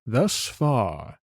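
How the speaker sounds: drawn-out end of a question; very slow. Shown as a demonstration. Host finishes repeating the question for a guest, very slowly. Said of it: "I'll repeat it very slowly".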